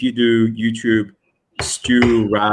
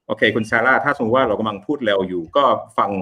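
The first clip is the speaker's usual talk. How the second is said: rapid Thai patter; speaking fast; much faster than usual. Shown as a demonstration. Teacher shows student fast speech, speaking fast. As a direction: speed up into quick conversational Thai. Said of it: "Let's speak fast for a minute".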